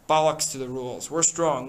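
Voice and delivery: loud defiance; shouting. Acted. Jack shouting against Ralph, loud defiance. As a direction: shout him down. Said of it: "Jack was shouting against him".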